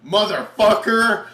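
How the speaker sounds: slow, loud, high mock curse; heroine's battle curse. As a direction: spit out the one-liner with relish. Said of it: "she goes".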